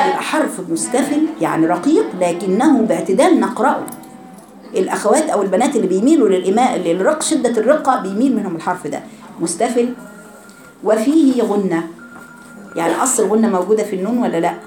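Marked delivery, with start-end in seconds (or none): none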